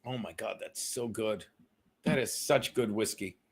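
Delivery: low savoring murmur. Real, not acted. Savoring whiskey again.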